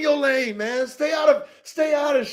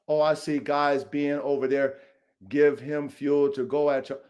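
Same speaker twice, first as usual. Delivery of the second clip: imitating Tony; 8 semitones lower, 4 dB quieter than usual. Imitating Tony's words.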